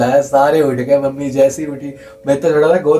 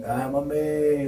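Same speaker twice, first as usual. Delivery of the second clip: drawn-out, higher, held-back mock scream; 4 semitones higher, 5 dB quieter, much slower than usual. Child crying out to mummy in fright, softer mock scream. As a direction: imitate a scream at reduced volume. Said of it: "जैसे ही चिल्लाया मैं full".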